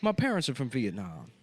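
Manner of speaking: lightly voiced comic investor; mildly put-on character voice. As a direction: keep a hint of the character. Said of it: "But I sound like this".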